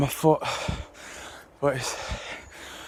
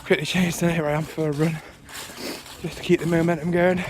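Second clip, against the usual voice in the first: breathless from running; winded, catching breath between words. Real, not acted. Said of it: "sorry, I'm a bit out of breath".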